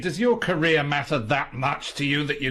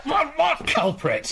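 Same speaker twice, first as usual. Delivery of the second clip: high, slow, flustered protest; flustered alarm; slower than usual. Acted. Writer quizzed by intruder about the culprit, high flustered alarm. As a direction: caught off guard and rattled.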